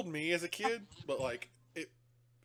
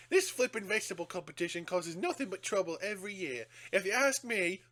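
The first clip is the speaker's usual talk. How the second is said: grumbling Yorkshire copper voice; northern constable; 5 semitones higher, 5 dB louder than usual. Retold or imitated. Constable complaining to the villagers, mock northern grumble. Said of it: "talking about, like".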